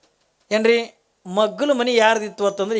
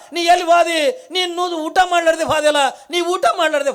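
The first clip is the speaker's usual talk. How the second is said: grieving call; 8 semitones higher than usual. Acted. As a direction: call after him in grief. Kalavve calls for vanished guest. (ದುಃಖದಿಂದ ಕೂಗುವುದು)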